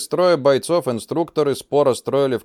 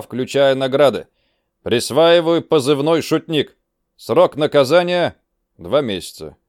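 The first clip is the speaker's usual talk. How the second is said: stern commander; 4 semitones higher, 5 dB louder than usual. Acted. Commander reads out mock order.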